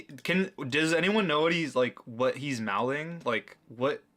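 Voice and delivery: ordinary talk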